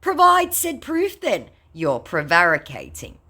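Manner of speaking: high, slowed mock reply; mocking retort. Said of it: "To which I went".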